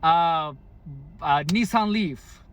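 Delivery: impatient customer repeating himself; mock yell. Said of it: "they would yell".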